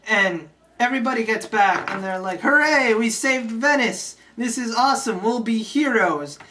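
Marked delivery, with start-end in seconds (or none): 2.4-6.4 mock cheering. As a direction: celebrate like a triumphant crowd, in jest. Everybody celebrates saving Venice.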